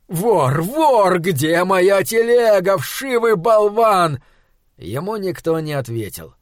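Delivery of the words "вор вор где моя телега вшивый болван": raised, higher-pitched cry of alarm; acted outburst, slowing into drawn-out insults; outraged yelling. A narrator's reading. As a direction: cry thief in indignant disbelief. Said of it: "завопил он, остановившись в изумлении".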